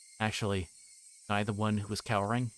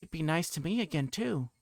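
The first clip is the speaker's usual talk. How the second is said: put-on higher, cheery girlish promise; sweet eerie girl; 7 semitones higher than usual. Reina reassuring Keiichi, eerie sweetness. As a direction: sweetly pretend all is well.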